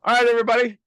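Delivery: high, loud rallying call; bright-pitched announcement to a room; calling to the group. Real, not acted. Calls the group back.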